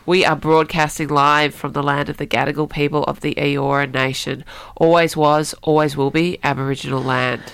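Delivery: blocked nose, stuffy nasal voice. Real, not acted. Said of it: "You sound a bit nasally today".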